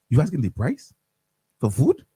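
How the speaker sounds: lightly attempted Dominican accent. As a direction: imitate a Dominican friend, accent only half there. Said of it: "I can't do Dominican accent very well".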